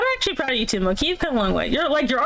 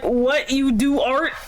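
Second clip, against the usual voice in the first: 1 mock surprise; 3 semitones higher, slower than usual. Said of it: "It's like".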